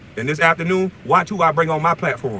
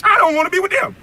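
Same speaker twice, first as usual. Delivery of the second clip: angry rant; 14 semitones higher than usual. Real, not acted. Calling out a rival from his car, yelling furiously. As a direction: yell it in outrage.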